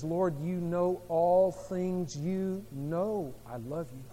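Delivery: slow, hushed, wounded confession; hurt sincere plea. Acted. Peter, hurt, answering Jesus slowly and sincerely.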